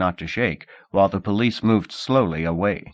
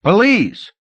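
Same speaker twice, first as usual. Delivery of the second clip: loud alarm cries, higher each time; shouting for police; 10 semitones higher, 9 dB louder than usual. Acted. Angry manager shouts after the fleeing boy for the police. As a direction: yell for the patrol, rising in pitch. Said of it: "the shout of".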